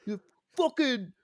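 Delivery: pumped-up shout; hyped yell. Pretend. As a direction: scream it like a jock. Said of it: "I'm not trying to make it sound like".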